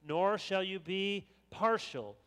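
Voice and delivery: measured, formal reading of biblical law; scripture reading. Acted. Preacher reading God's law to the church, formal scripture reading. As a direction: read the commandments out to a congregation. Reads scripture aloud to congregation.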